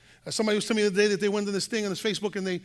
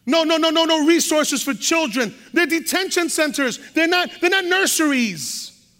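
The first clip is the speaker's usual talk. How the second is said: rising preacher protest; 4 semitones higher than usual. Real, not acted.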